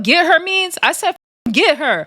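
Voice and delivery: high mock demand; hammed-up insistence; imitating a demanding call. Erica Raven telling security to hold Rella G, high mock demand.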